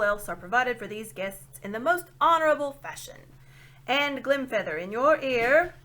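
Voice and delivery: put-on a deaf old dwarf shouting his grievance; shouting old dwarf who can't hear; loud old dwarf. A narrator's reading.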